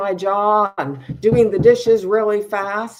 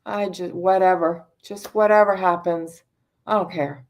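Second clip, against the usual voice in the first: apathetic mumble; 3 semitones lower, faster than usual. Retold or imitated. Imitating someone drained and hopeless, mumbling fast. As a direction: toss the words away as if nothing matters. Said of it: "it's like".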